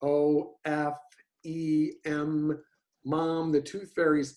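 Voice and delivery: "O, F, E, M" shaped out one by one; phoneme mouth shapes. Shown as a demonstration. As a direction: spell out the mouth shapes "O", "F", "E", "M" before "mom". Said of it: "when you do the phoneme things".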